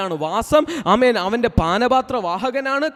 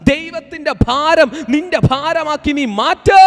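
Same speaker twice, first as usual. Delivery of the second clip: fervent preaching; 2 semitones higher than usual. Acted. Preacher builds to full force.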